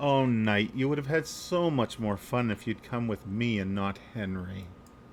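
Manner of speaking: playful, pouty little voice. A narrator voices a woman stepping from behind a bush toward the knight, in a pouting voice. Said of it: "puts a little bit of a pout on and says".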